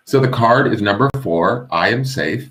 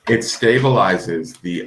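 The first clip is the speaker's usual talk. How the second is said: slow, strained words with a sore jaw; jaw pain; slower than usual. Real, not acted. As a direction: talk gingerly around jaw pain. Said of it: "my jaw is hurting".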